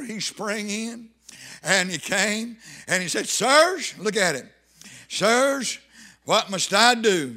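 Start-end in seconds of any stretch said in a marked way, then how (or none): 3.3-3.9 high, loud call of the jailer; crying out. Retold or imitated. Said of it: "He cried with a loud voice". 5.1-7.3 jailer's loud, urgent question; crying out. Retold or imitated. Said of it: "He cried with a loud voice".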